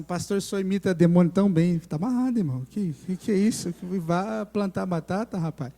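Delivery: fala mais alta e animada; diálogo encenado mais alto. Retold or imitated. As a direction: encena a conversa com vigor. Diálogo encenado com demônio. (pastor e demônio discutindo, mais alto)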